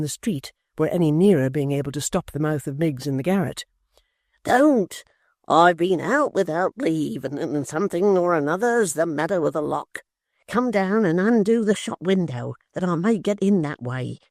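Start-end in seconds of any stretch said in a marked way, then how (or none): 4.4-14.2 lightly voiced apprentice. Tappertit pleads at the door.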